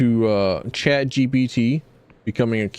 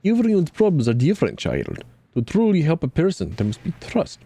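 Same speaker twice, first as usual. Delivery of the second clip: a hint of a sly market seer; fortune teller Reza; 6 semitones higher than usual. Reza speaks cryptically.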